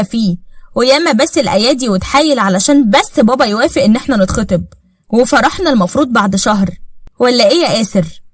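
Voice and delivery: a smug rival needling the wife, mocking; taunting rival. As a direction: rub it in sweetly to the wife.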